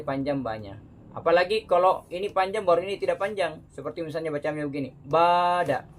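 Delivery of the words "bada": loud "bada" with a clipped short "ba" and the last "da" stretched; doubly wrong reading. Shown as a demonstration. Teacher demonstrating to students a reading with two mistakes. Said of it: "itu justru dua kesalahan".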